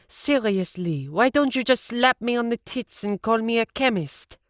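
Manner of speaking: high, loud scolding rant; high-pitched furious rant at a stranger; yelling at old woman. A narrator's reading. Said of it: "after yelling at an old woman".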